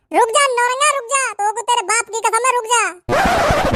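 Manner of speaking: yelling after a runaway friend; calling out. Acted.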